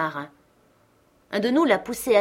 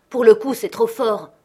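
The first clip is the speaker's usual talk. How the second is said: others exclaiming; 3 semitones higher, 8 dB louder than usual. A narrator's reading. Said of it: "ont dit les autres".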